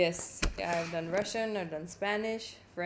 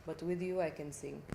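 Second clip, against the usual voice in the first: low, soft-spoken Russian accent; quiet thank-you in a Russian accent; 3 semitones lower, 5 dB quieter than usual. Shown as a demonstration. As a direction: speak English with a Russian accent. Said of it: "That's the Russian one".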